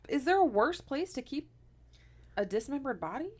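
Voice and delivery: high, loud disbelief; can't believe it, the attic of all places; incredulous. Real, not acted. Incredulous about body in attic.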